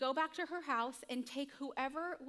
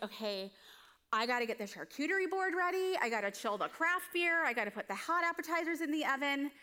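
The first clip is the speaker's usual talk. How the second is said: frantic hostess; 3 semitones higher, 6 dB louder than usual. Retold or imitated. Martha frantic over hosting to-do list.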